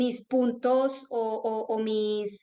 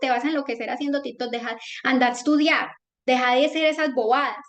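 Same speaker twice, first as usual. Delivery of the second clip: higher, quick retold aunt's scolding; mock scolding; 3 semitones higher, 3 dB louder than usual. Aunt telling her little niece to go study, mock scolding. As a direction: lightly nag a youngster, fast.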